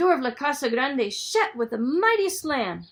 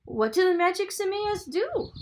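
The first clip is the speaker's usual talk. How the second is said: Paco's voice; 8 semitones higher than usual. Acted. Paco asks question, higher voice.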